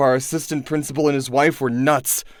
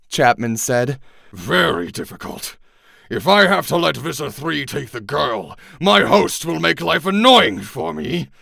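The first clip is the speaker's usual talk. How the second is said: menacing Yeerk villain; 3 semitones higher than usual. Acted. Chapman's Yeerk threatens the captured Andalite, coldly. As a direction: savor every veiled threat.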